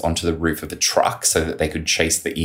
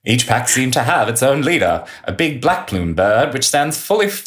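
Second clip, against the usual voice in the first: higher, dramatic soldier's report; 8 semitones higher than usual. Retold or imitated. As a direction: tell it like an awed old digger. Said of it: "I'll do the voice again".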